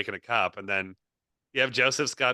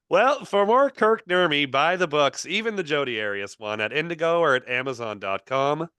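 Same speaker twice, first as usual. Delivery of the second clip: energetic host sign-off read; podcast outro plug. Real, not acted. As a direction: roll through the plugs like an announcer. Host reads the closing plugs.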